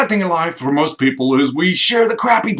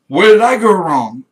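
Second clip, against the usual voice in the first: mock despair; 7 dB louder than usual. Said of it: "I'm looking at them going".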